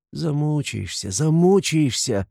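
high, slow imploring; desperate pleading. A narrator's reading. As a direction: beg him in despair. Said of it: "повторяла она в отчаянной мольбе".

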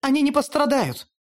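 high, urgent shout; crying out. Acted. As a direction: cry it out to stop him. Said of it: "выкрикнула". (выкрикнула, высоко)

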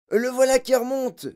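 high, loud announcement; excited yell. A narrator's reading. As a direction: yell out what you just spotted. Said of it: "hurla quelqu'un".

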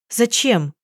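plain reading voice

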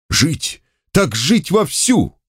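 high, slow yell; bawling toast. A narrator's reading. Gnilоedov bawling a toast to life at the table, high and slow. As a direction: bawl it as a drunken toast. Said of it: "заорал Гнилоедов".

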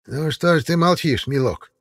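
high, slow coaxing crone; old witch voice. A narrator's reading. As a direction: sweetly needle him like a witch. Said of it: "подала голос Баба Яга".

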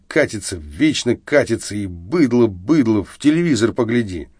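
put-on bitter drunk ranting, rising in pitch; angry drunk rant. Drunk Arestov ranting angrily at his friend on the train. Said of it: "зло выговорил Арестов".

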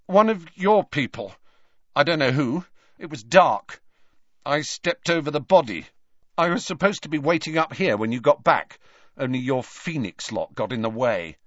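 put-on frightened boy talking fast and high; high strained voice. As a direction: keep the pitch up, rattled. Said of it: "voice seemed to go up an octave".

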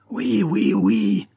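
high, strained cry of a madman; the captured poisoner crying out to the prefect. Acted. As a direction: shriek it out, cornered. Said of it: "il cria".

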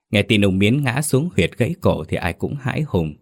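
usual speaking voice

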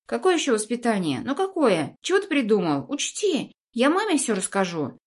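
high whiny brat threatening; whiny spoiled pouty drawl. Acted. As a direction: whine threats like a spoiled kid. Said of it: "Сыплются угрозы".

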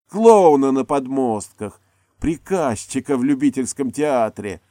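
high, loud, mocking yell; furious scorn. A narrator's reading. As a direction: hurl the contempt at him. Actress screaming insults in quarrel.

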